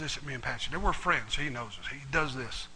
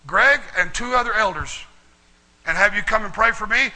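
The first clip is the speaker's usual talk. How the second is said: imitating mom; 5 semitones higher, 8 dB louder than usual. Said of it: "I'm really doing a good mom here".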